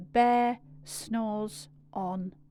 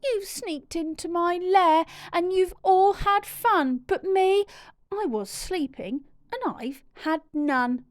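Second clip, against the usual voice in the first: louder, higher indignant grumble; grumbling bear; 6 semitones higher, 4 dB louder than usual. Acted. Woken bear scolds party guests, grumbling louder. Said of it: "bear growls and he grumbles".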